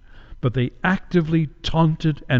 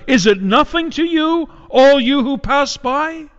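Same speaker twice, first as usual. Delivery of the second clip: anguished outcry; 10 semitones higher than usual. Acted. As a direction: call out to the passersby in anguish. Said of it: "at the top of her lungs".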